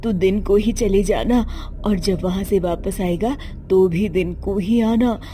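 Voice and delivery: lightly voiced mother, startled then cautioning; a hint of a worried mother warning the son. Mother worries about river crossing. (चिंतित माँ की हल्की आवाज़, समझाते हुए)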